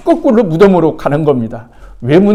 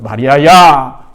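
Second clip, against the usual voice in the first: Jesus calling Mary; 6 dB louder, much slower than usual. Retold or imitated. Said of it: "부활하신 주님이 마리아에게 나타나서 이렇게 말하는".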